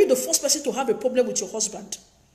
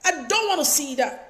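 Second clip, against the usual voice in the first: urging mom; 4 semitones higher than usual. Retold or imitated. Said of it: "I tell my mom sometimes".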